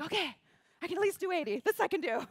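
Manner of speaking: high, loud, rallied reply; re-enacted plucky determination; eager resolve. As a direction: take up the challenge with new energy. Accepting the new smaller goal.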